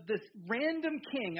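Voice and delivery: "random" picked out with emphasis; stress on random. Real, not acted. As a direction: lean on the word "random". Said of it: "I wanna emphasize the word random".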